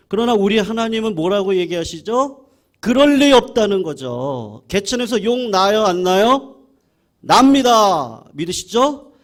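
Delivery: loud, high-pitched pulpit proclamation; rally the congregation with shouted questions and answers; full-force preaching. Real, not acted. Pastor challenges congregation to believe God, fervent shouted preaching.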